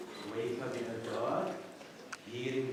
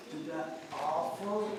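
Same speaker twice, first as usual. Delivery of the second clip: loud, much higher, pushing hard; pressing shout; 8 semitones higher, 6 dB louder than usual. Acted. Interrogator pushing a witness about the lambs, shouting. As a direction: corner her with the question.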